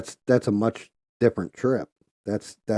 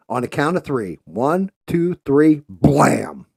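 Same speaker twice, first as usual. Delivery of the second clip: higher, louder hyped announcer calling the shots; mock execution announcer; 5 semitones higher, 3 dB louder than usual. Host addressing the crowd and riflemen live, hammed-up announcer. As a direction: play the showman running a public firing squad.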